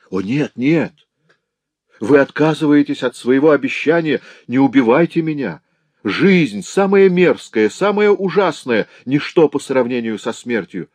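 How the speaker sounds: desperate pleading. Acted. Villain begs not to be killed.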